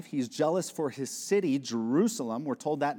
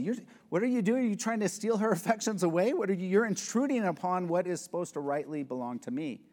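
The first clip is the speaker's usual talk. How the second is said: higher, fast, heated confrontation; righteous indignation; 6 semitones higher than usual. Shown as a demonstration. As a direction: call out the intruder protectively, hurried and indignant. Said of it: "That's a righteous type of jealousy".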